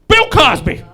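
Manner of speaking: put-on high, loud old-lady outburst; mimicked old woman shouting the answer; elderly woman. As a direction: blurt it in a shrieky old woman's voice. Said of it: "And she goes".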